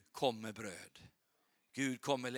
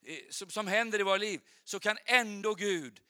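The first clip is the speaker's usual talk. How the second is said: raised, emphatic sermon voice; fervent preaching; 7 semitones higher, 7 dB louder than usual. Real, not acted. Preacher promises God restores lost boldness, fervent preaching. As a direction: urge hope on the congregation.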